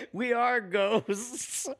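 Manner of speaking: spooky ghost voice. Pretend. Playing invisible ghosts.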